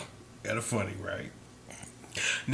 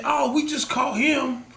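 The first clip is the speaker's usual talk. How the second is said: imitating detective; 10 semitones higher, 5 dB louder, slower than usual. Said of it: "She said".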